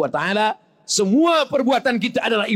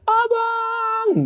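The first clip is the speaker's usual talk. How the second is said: high mock wail of a grieving wife; wailing widow. Wife wailing over her dead husband, hammed-up cry.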